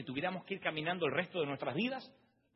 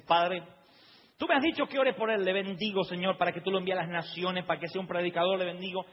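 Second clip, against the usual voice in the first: a hint of fervent prayer voice, a bit higher and louder; praying brother; 3 semitones higher, 5 dB louder than usual. The brother blesses Dante's hands, mild fervent prayer. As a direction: pray over him with mild fervor. Brother prays over him.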